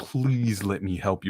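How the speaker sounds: put-on, visibly upset voice. Retelling a scene in which a character pleads to help: imitating someone visibly upset. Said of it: "he was getting visibly upset".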